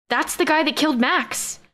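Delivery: high-pitched outcry at normal volume; crying out. A narrator's reading. Narrator recognizing Max's killer on the video feed, crying out. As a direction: cry it out in high-pitched alarm. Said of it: "I cried".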